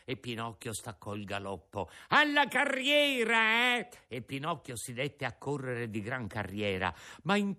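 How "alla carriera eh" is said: high, drawn-out ringmaster call; shouted command. Acted. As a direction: urge the donkey on at full cry.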